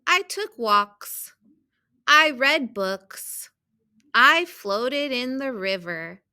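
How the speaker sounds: measured storybook reading with stressed key words; children's story read-aloud. A narrator's reading. Teacher reading a picture book to students, storybook read-aloud. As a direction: read it out carefully for young readers.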